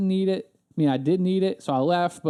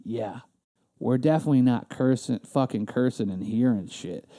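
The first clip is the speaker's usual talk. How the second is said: the customer smiling back at the clerk, lower and sly; smiling mock agreement; 5 semitones lower than usual. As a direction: agree with a smile while mocking her. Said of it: "looked at her and smiled and went".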